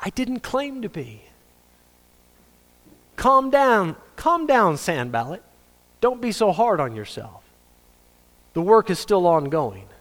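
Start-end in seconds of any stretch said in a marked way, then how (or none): 3.2-7.4 mock calming. Calming himself down.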